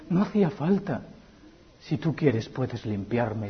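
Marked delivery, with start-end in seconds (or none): 1.8-3.5 soft, slow, lower; soft plea. Acted. Leper's humble request to Jesus, soft and slow. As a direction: plead slowly and gently.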